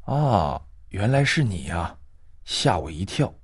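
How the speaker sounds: put-on soft, relieved old woman; relieved sigh. Old woman recognizing the girl, softly relieved. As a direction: let the fright drain out. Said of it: "她松了一口气".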